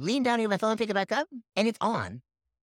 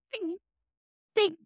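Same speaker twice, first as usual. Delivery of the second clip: short high cartoon "ding"; ping like a cartoon character; imitated cartoon ping; 13 semitones higher than usual. Acting out a cartoon character getting pinged, short high dings. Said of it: "like, getting pinged".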